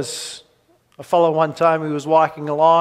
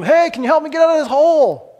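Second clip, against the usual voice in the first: fast, much higher, louder shout; hurried acted cry for help; 11 semitones higher, 6 dB louder, faster than usual. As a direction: yell up quickly at the politician. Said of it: "he shouts up to him".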